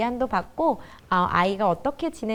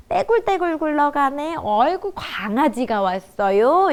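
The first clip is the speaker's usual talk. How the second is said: put-on singsong talk to a baby; 3 semitones higher than usual. Mother chatting to a one-year-old, baby talk. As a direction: coo over a one-year-old, higher pitched. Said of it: "어떤 대화를 많이 써주세요".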